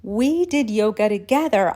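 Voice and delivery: loud, eager realization; emphatic, excited recollection. Acted. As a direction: blurt out the discovery. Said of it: "so excited to connect the dots".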